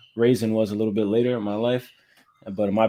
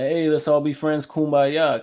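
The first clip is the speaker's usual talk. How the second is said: lightly voiced naive, happy newcomer, a little higher; happy Southerner; 4 semitones higher, slower than usual. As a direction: imitate a friendly, happy-go-lucky Southerner, only lightly. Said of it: "I was just a dumb, happy Southerner".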